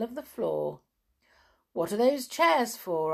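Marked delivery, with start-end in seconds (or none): 1.7-3.1 mildly surprised question, raised pitch and level; a touch of puzzled surprise. A narrator's reading. Tom asks Amelia Jane about the chairs, mildly surprised. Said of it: "asked Tom in surprise".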